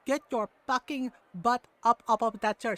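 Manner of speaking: imitating mom's accented telling-off; scolding mom. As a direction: do an indignant mom ordering someone up. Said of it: "like, the mom tone and everything".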